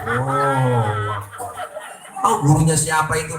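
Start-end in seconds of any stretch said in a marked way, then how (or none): 0.0-1.5 martial-arts takbir. Retold or imitated. Preacher mocking a worshipper's kung-fu style takbir. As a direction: bellow it like a martial-arts shout. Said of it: "Ada takbir begitu".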